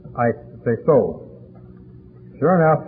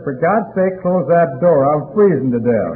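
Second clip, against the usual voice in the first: put-on pleading frozen drunk; 2 semitones higher, 5 dB louder, slower than usual.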